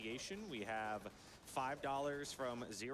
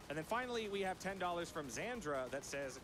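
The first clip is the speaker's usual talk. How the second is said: ordinary talk, nothing marked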